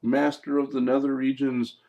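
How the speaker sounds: hammed-up servant's salutation; demon underling hailing master. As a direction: hail your dark master with mock reverence. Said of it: "the guy walks in and says".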